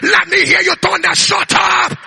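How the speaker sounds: shouted rebuke repeated; thundered command. Shown as a demonstration. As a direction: thunder it at the enemy. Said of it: "Thunder it again".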